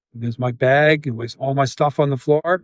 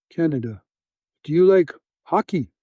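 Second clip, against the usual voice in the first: captor's hockey question; 2 semitones higher than usual. Retold or imitated. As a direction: imitate a captor asking about hockey, lightly voiced. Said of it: "the way he said it was just like that song".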